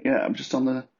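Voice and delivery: high, bright imitation of a caller; mock chatty friend. Mocking a friend who calls from the toilet, high voice. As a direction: mimic someone chatting from the loo.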